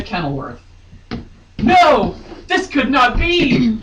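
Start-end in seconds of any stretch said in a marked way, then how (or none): 1.6-3.8 loud, high melodramatic cry of denial; dramatic outburst. Acted. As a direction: ham up the villain's horror.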